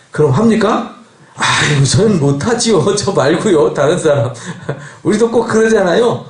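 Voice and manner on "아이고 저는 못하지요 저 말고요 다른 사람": acted-out sheepish begging off; light, comic demurral; reluctant refusal. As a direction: wriggle out of the job, half laughing.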